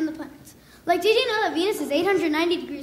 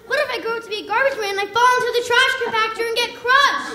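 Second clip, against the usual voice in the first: panicky worry; 5 semitones higher, 3 dB louder, faster than usual. Retold or imitated. Spiralling worry, rushed.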